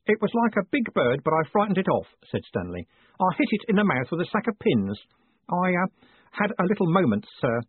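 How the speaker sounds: put-on high, earnest boyish voice; a boy trying hard to keep calm; eager boy Stanley. A narrator's reading. Stanley reports the fire to Moist in a high boyish voice.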